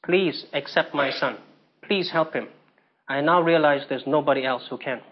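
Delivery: soft, slow plea from a humbled mother; quiet slow begging. Retold or imitated. Mother begs pastor to take her son, softly and slowly. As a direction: beg softly and slowly, letting it sink. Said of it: "she begged me".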